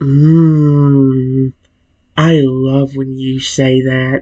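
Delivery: eerie, creepy feminine voice with drawn-out mmm. Voicing a female creature in a story told to the listener, creepy feminine voice. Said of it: "in that creepy way I said it".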